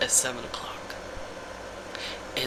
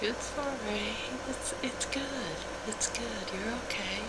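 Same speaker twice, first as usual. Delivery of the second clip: fake sweet voice; 8 semitones higher than usual. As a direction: force a sweet smile into it. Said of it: "I always plaster a smile to my face".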